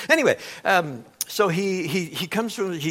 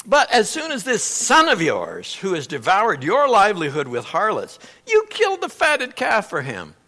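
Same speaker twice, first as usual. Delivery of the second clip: on the attack; 3 dB louder than usual. Retold or imitated. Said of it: "he goes on the attack".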